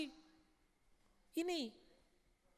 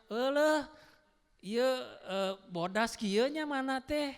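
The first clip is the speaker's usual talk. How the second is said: Sundanese woman; 3 semitones higher, 4 dB louder, slower than usual. Acted. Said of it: "kata si perempuannya".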